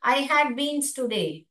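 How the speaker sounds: very slow, had stressed; slow model sentence for students; slow demo sentence. Shown as a demonstration. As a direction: read it out slowly so the class hears beans. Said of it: "ऐसे".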